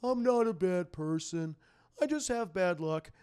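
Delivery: put-on villain voice, pleading his case; mock-sincere villain excusing himself; Sandman impression. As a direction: act out a self-pitying bad guy. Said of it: "Sandman literally just forms a giant hammer. He's like".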